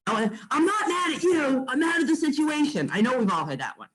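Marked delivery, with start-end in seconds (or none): 0.1-2.9 high-pitched mock apologetic plea; imitated client apology. Imitating a client's next-day apology call, mock placating. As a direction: mimic a client backpedalling, pitched up. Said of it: "the bigger their apology is".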